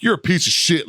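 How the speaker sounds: high-pitched mock outrage; retold yelling. Lawyer berating a process server as retold by client, mock yelling. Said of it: "yelling at the guy".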